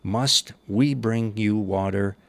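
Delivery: slow, weighty rebuke with a rising edge; exasperated rebuke. Acted. Moses rebuking the rebellious congregation, slow and exasperated. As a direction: scold them like a leader at the end of his patience. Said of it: "Moses lost his composure".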